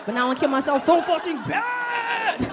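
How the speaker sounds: high, loud laughing yell; comic shout. Acted. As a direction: shout the punchline in mock outrage. Punchline shout after the doctor's remark.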